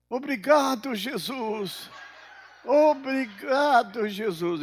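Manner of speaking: high, loud cry of thanks, drawn out on the repeat; imitated jubilant child. Granddaughter raises her hand thanking Jesus, imitated jubilant shout. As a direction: exclaim it like a grateful little girl. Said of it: "levanta a mãozinha pra cima e fala assim".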